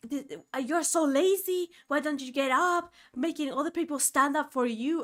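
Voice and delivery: mock the grandpa telling her off; a hint of a cranky old man; angry grandpa scolding. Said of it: "all angry at me".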